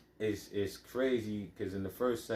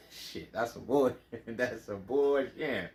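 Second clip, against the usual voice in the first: laughing disbelief; 3 dB louder, slower than usual. Retold or imitated. Man voicing reaction to being robbed, laughing disbelief. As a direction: scoff through a laugh. Laughing at a retold street situation.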